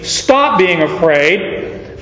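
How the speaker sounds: slow and gentle; tender reassurance. Acted. Jesus reassuring the frightened fisherman, tender and slow. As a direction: soothe him slowly.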